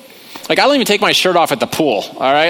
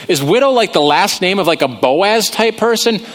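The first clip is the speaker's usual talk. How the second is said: lightly voiced clueless prophet; puzzled Elijah; 5 semitones higher than usual. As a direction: play dumb, voice pitched up. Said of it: "Elijah's like".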